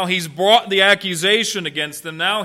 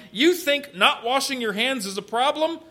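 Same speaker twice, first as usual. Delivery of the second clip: pointed retort; 5 semitones higher than usual. Acted. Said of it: "he brings it right back to the point".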